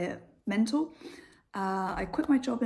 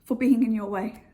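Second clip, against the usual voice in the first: polite apology; 4 semitones higher, 5 dB louder than usual. Retold or imitated. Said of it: "I'll be like".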